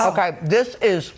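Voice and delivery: talking through a mouthful; words around a bite of cake; mouth full. Real, not acted. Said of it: "sorry to talk with my mouth full".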